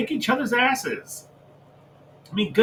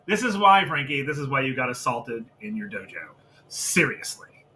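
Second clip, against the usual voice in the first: ordinary delivery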